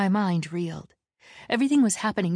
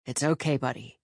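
reassuring; 4 semitones lower than usual. Acted. Tor calming frightened Wren, gently reassuring.

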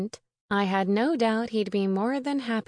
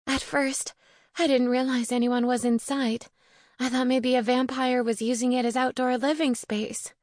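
higher-pitched voice for a distressed friend; lightly voiced upset witch, pitched up; distressed young witch; 4 semitones higher than usual. Sophie explains how she found the coffin, higher, earnest voice.

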